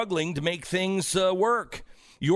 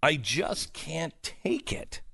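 low, soft, quick self-reproach; subdued regret; 5 semitones lower, 6 dB quieter than usual. Real, not acted. Host owning up that he hates getting like this, subdued. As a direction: sink down low and confess it softly. Regretting his own outburst, exasperated.

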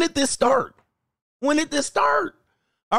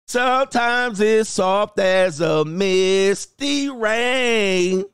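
slow reading; much slower than usual. Acted. Reads lyric-like caption.

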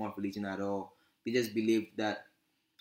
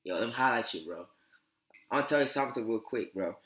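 lightly voiced laid-back bro talk, barely shifted; a hint of the roommate's easygoing slang; imitating roommate's talk. Imitating his African American roommate who says bro to everything, lightly voiced. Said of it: "This is how he talks".

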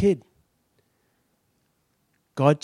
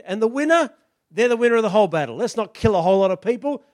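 louder, higher, taunting; mock giant's challenge; 4 semitones higher, 4 dB louder than usual. Goliath taunting the Israelite army, loud and higher. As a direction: call out the challenge across the valley.

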